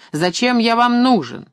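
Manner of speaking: high, demanding question; shouted. A narrator's reading. Maxim questioning Funk's purpose, shouting. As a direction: call out, demanding an answer. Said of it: "крикнул Максим".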